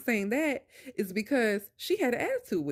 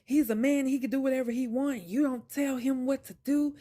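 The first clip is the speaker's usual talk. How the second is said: retold rant; 4 semitones higher than usual. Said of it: "he starts going off".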